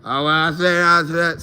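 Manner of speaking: lightly imitated rambling drawl; mimicking the same teammate's casual drawl. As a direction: mumble it like his casual country talk.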